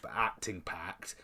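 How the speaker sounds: hushed, unvoiced emphasis; whispering. Real, not acted. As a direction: drop to a whisper.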